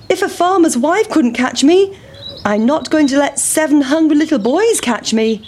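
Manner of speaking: high, teasing runaway voice; pancake boasting. Acted. Pancake boasting to the boys, high teasing voice. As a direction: gloat as you roll away.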